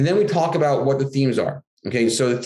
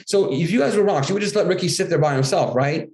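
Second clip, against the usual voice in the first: higher, coaxing question to the class; animated teacher question; 4 semitones higher than usual. Shown as a demonstration. Author asking schoolkids a leading question, coaxingly. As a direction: lead the kids to the answer, brightly.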